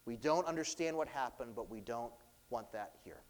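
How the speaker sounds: a low, hushed voicing of the fearful townspeople; softly, as if they want him gone; hushed, uneasy brush-off; quiet townspeople quote. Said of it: "they say".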